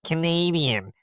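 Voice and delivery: nasal, drawn-out mock Canadian accent; bad Canadian accent. Actor recalling his botched audition tape, bad nasal Canadian accent. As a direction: overdo a Canadian accent through the nose. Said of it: "I just went as nasally as I could".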